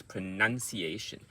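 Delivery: pronunciation run together at normal speed; quick take. Shown as a demonstration. Coach showing the word said quickly, pronunciation run together. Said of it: "So when you say quickly".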